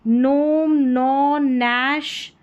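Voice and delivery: नोम, नौ, नैश starting on a plain n, no g; drawn-out separate words नोम, नौ, नैश with silent g. Shown as a demonstration. Teacher modelling GN words, silent-g demonstration. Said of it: "इसको न करके pronounce करेंगे".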